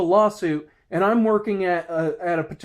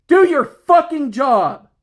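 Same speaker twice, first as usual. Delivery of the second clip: slow, high, loud angry order; angry command; 6 semitones higher, 5 dB louder, slower than usual. Real, not acted. Ordering lazy coworkers to work, slow angry shout. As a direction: spell it out like a final warning. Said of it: "angry as hell over this shit".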